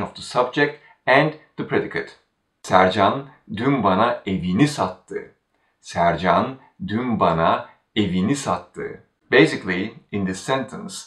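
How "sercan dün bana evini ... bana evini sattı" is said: evini made the focus before sattı; stress on evini. Shown as a demonstration. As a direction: put the weight on evini. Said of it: "the constituent right before the verb evini has".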